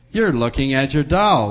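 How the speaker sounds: light laughing reassurance. Acted. Doctor tells the girl she sees her doll, mildly laughing. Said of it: "laughed Doctor Carter".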